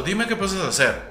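helpless model. Retold or imitated. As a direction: play the clueless model asking for help. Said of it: "yo me ha pasado".

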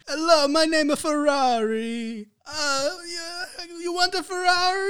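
talking car voice. Acted. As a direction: squeak like a sulky talking car.

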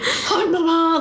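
laughing, breathed-out mock greeting; breathy greeting. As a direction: exhale the greeting onto imagined glass. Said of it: "had my nose up breathing".

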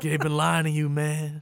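lightly voiced cult-leader wrestler; Bray. Wrestler telling fans they've been lied to, lightly imitated. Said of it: "a good Bray impression".

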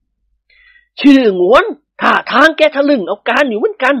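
a hint of an amused lordly drawl, slow; lightly voiced old nobleman. An old nobleman teasing a cheeky servant, lightly voiced. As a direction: savour the tease, slowly.

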